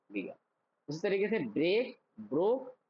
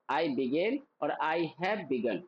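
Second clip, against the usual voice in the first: slow drill; much slower than usual. Shown as a demonstration. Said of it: "मेरे साथ practice करना".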